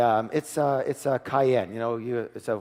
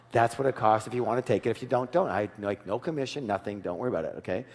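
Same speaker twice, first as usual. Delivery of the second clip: stuffy finance director; 2 semitones lower, 4 dB quieter than usual. Retold or imitated. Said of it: "she's one of these real stuffy finance directors".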